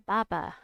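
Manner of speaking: "Baba" with the first syllable stressed. Shown as a demonstration. Streamer trying out a viewer's pronunciation of "Baba", first syllable stressed. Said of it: "has stress on the first syllable".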